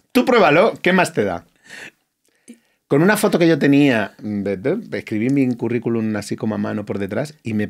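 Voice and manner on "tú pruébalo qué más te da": higher, louder urging; a friend egging him on, higher and louder; encouraging friend. Retold or imitated. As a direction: push him to just try it. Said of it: "Y me dice".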